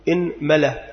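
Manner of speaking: إنملة with kasra on the hamza and fatha on the mim, inmala; vowel demo. Shown as a demonstration. Teacher listing the variant for students, careful inmala. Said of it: "ثانيا كسر الهمزة".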